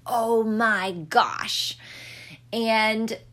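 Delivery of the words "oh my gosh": slow, drawn-out oh my gosh; lightly mimicked toddler exclamation; toddler saying oh my gosh. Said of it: "Rosie had started saying".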